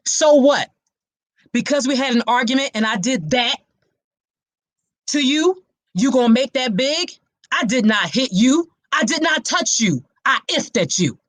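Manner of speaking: brushing off the accusation, mildly acted; abuser's sound bite. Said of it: "This is a real sound bite".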